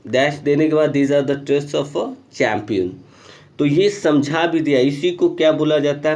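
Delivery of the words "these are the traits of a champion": slow, deliberate read of a textbook line; reading the rule aloud. Acted. Teacher reading the example sentence to students, slow and deliberate. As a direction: spell the sentence out for the class.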